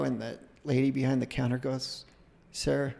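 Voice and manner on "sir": badly faked English accent; attempted English accent. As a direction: have a half-hearted go at English. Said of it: "I'm trying to do my English accent".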